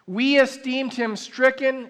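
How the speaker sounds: slow, weighty reading of the verse with long pauses; solemn scripture reading. Acted. Preacher reads Isaiah to the church, slow and solemn. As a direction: lean into each phrase like a sacred text.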